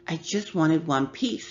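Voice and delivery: talking through a mouthful; mouth full. Acted. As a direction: say it while chewing. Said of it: "with her mouth full".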